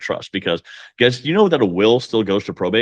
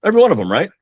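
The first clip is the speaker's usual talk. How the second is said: much higher and louder, driving it home; emphatic rhetorical push; 10 semitones higher, 6 dB louder, much faster than usual. Real, not acted. Coach pressing loan officers, loud, high emphatic challenge. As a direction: hit "Every" hard and high, daring disagreement.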